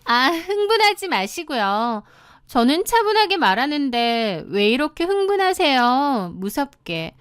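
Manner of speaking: mocking, needling. Mistress goading the screaming wife, slyly mocking. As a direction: needle her with fake composure. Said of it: "실실 저를 약올리더라고요".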